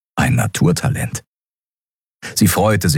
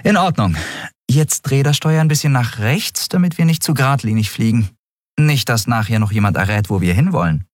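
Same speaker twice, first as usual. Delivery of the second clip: raised dialogue voice, step-by-step instruction; lightly voiced instructing captain; 6 semitones higher than usual. Captain teaches the boy to steer, lightly voiced instruction. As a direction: explain the controls patiently, point by point.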